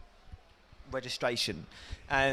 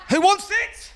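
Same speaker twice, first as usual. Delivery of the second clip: cocky challenge; 4 dB louder, slower than usual. Acted. Mate challenging in street fight.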